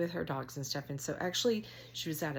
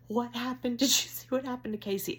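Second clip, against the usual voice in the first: high, louder frantic questioning; mock panic; 7 semitones higher, 4 dB louder than usual. Woman asking dachshunds about death, high mock panic. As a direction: plead high-pitched for an answer, hammed-up.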